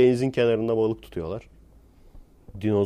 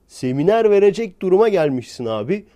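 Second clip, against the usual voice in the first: much louder and higher, incredulous; almost shouting in disbelief; indignant outburst; 8 semitones higher, 7 dB louder than usual. Real, not acted. Exasperated rant about graduates. (inanamayarak bağıran, öfkeli ses)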